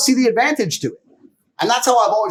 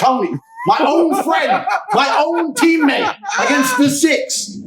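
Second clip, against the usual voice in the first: loud, slow and higher, half laughing in disbelief; slow outraged shout; 8 semitones higher, 4 dB louder, much slower than usual. Real, not acted. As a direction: drag out each word in outraged disbelief. Outraged at his friend's betrayal.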